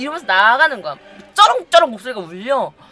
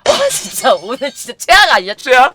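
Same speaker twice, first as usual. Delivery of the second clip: exasperated outburst; 3 semitones higher, 8 dB louder than usual. Real, not acted. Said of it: "ranting about the rain".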